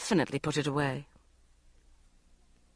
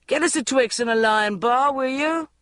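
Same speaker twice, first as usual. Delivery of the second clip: mild yell; 7 semitones higher, 3 dB louder than usual. A narrator's reading. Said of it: "yelled the cameraman".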